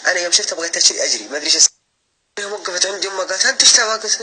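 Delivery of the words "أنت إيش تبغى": put-on snapping loud and high as the old mother; a sharp hostile challenge; angry mother. Mother confronts him angrily. (الأم تصرخ عليه بغضب)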